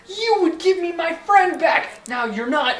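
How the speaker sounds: ordinary talk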